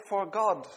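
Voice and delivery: "For God" with "God" set apart and falling; stress on God. Shown as a demonstration. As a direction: dwell on "God" as the key word. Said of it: "And then you say".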